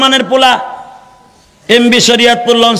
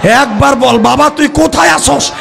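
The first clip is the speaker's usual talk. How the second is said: acted pleading call of a mother, climbing in pitch; mother's cry. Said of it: "মা চিল্লানি দিয়া কয়". (মায়ের আকুল ডাকের অভিনয়)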